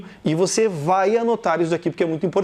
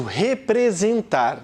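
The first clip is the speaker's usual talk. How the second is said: sounding out words; 3 semitones higher, much slower than usual. Shown as a demonstration. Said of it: "Tem quantas letras?".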